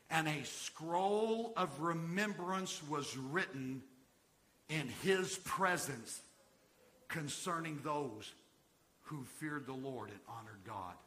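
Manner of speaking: slow, weighty scripture reading; deliberate reading so every word lands. Real, not acted. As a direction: draw out each phrase, pausing between. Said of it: "I'm gonna read this slowly".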